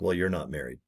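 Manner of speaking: soft unvoiced whisper; whispered aside. Calling out a fake excuse, dry whisper. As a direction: whisper it dryly. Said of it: "And then you're like".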